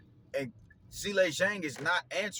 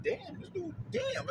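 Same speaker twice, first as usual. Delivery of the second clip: much higher, awed disbelief; amazed damn; 4 dB quieter, slower than usual. Retold or imitated. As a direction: let it squeak out in amazement. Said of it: "I'm sitting here like".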